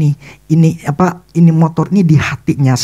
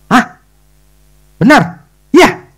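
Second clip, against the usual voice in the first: surprised disbelief; 9 semitones higher, 5 dB louder, slower than usual. Retold or imitated. John surprised by gift.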